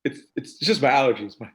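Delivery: high, slow, whiny sob voice; whiny crybaby voice. Retold or imitated. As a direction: whine like a sulking kid. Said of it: "He's like".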